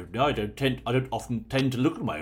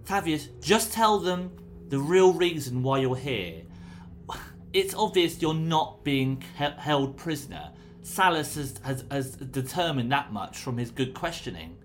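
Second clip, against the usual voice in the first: pleading paladin; 5 semitones higher than usual. Acted. Raya pleads with the prisoner.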